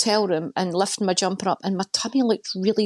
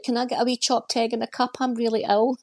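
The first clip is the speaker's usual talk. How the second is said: whiny sick family; 4 semitones higher than usual. Retold or imitated. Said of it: "and they're like".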